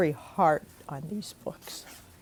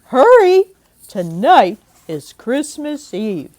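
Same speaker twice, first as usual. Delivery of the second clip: eager Aunt Mim; 2 semitones higher, 8 dB louder than usual. Acted. Aunt rousing the family to decorate, loud and eager. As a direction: urge them out with excitement.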